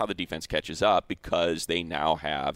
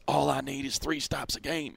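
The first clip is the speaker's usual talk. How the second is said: higher-pitched imitation of a Texas coach; thick Texas accent; 7 semitones higher, 3 dB quieter than usual. Host reapplying a coordinator's line to Monday's game, Texas accent. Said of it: "in his thick Texas accent".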